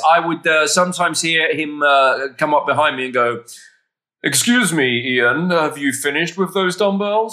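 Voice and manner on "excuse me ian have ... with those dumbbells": polite, plummy-toned British request as Hugh Laurie; lightly voiced British gent asking a favour. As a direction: ask politely in a British accent. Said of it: "very British".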